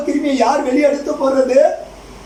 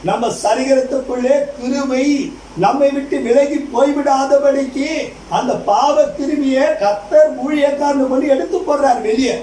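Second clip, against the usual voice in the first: raised, emphatic sermon voice; stirring pulpit delivery; preaching; 4 semitones higher than usual. Acted.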